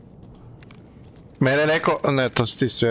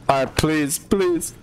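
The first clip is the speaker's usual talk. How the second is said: pleading; 4 semitones higher, much slower than usual. Real, not acted. Pleading for loot.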